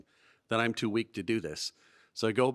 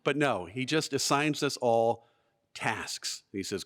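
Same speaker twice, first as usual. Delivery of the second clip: ordinary talk, nothing marked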